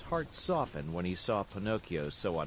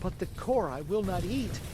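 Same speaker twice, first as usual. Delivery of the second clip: angry tone; 9 semitones higher, 3 dB louder than usual. Acted. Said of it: "cried Pinocchio in an angry tone".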